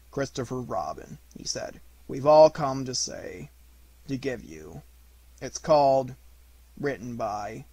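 lightly voiced donkey, stumbling and halting; hesitant Eeyore. Eeyore trying to say goodbye to Christopher Robin, halting. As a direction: fumble for words, shy and embarrassed. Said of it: "so as to encourage himself".

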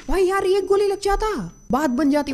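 very high, strained plea of frustration; high-pitched lament. Real, not acted. Gamer ruing one missed bullet, high lament. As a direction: wail it high over the near miss.

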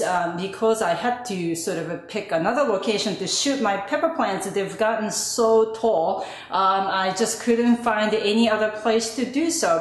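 echoey room. Real, not acted. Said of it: "apologize for this echoey voice".

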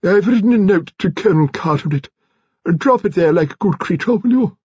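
high-pitched lady giving orders; imperious old lady. A narrator's reading. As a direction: hand out an errand in a high voice.

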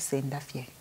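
hushed, discreet instruction; quietly imitating someone's whispered advice; imitated whisper. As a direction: murmur it as a private aside. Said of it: "he would whisper".

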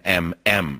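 a drawn-out, hummed "M"; stressed M. Shown as a demonstration. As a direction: lean hard on the "M". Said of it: "with an emphasis on the M".

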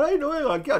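high-pitched mocking crybaby whine; mock whining. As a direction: imitate a whiny player begging for help. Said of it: "como me lloran a mí".

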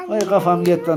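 talking through laughter; laughing. Real, not acted. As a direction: say it while still laughing. Laughing after head is shaved.

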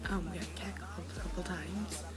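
soft, just-woken-up morning voice. Real, not acted. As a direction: talk with your morning voice. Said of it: "And I have a morning voice".

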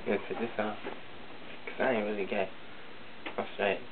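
a lightly put-on sassy cousin voice; Juanita voice. Cousin Juanita greets the camera, lightly camp sassy voice. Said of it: "Why you still talking like that?".

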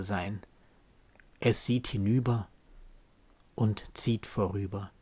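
measured poetry reading with deliberate pauses; solemn spoken poem; poem recitation. Acted. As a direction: recite it as verse, letting short phrases stand alone.

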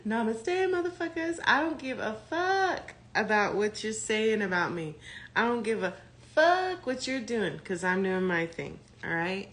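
breezy I-don't-care spiritual voice; mock zen brush-off.

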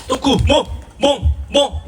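lightly voiced puppy barking, half-laughing; a playful mock woof for the crowd. Host jokingly barks like the poo-land puppy, lightly. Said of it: "이렇게 울고 있습니다".

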